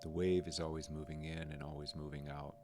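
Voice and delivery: calm, unhurried meditation guide, pausing between phrases; lightly softened guiding voice, leaving room to breathe; guided meditation. Real, not acted. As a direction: gently guide listeners through noticing the breath.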